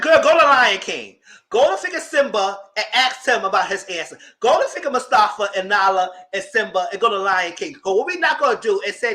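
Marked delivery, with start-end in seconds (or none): 0.0-7.7 telling her off with full volume; loud scolding. Retold or imitated. Speaker scolding the agent about the tree, loudly.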